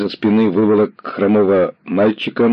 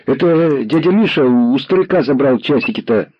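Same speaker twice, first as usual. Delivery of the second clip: put-on high, hurried boy's voice, louder; hasty boy; 7 semitones higher, 4 dB louder than usual. A narrator's reading. Lame boy blurting out to the commissar, high and hurried. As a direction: blurt it out fast like a scared kid. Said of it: "поспешно сказал мальчик".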